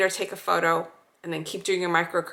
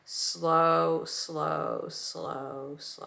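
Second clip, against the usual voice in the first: drawn-out slow, fading softer each time; self-coaching murmur; 2 semitones lower, 6 dB quieter, much slower than usual. Real, not acted. Therapist pacing herself on camera, softly fading murmur. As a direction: murmur it to yourself as you glide. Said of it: "I tell myself slow".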